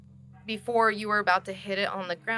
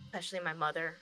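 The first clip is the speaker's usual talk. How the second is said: subdued confession; 6 dB quieter than usual. Acted. Freed character thanks and confesses, subdued.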